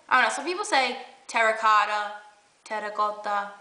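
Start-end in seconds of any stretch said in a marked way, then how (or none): 1.3-3.5 terracotta with a light Italian lilt; Italian accent. Shown as a demonstration. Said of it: "I'm saying it with, like, a little Italian accent".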